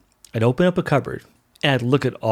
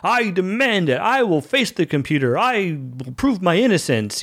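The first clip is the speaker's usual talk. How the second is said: hammed-up Captain Kirk; 5 semitones higher than usual. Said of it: "I don't know why I'm doing that voice".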